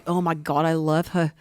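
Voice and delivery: low, lovesick first try at Beck; a lightly voiced smitten ogre; swooning Beck. Retelling the book, a mild lovesick ogre. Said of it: "let me do that again".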